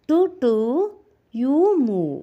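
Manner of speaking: high, loud honking car voice. Acted. Teacher voicing the car telling the bus to move. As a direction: toot and order the bus aside. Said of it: "പിന്നെന്താ പറയുന്നത് നോക്ക്".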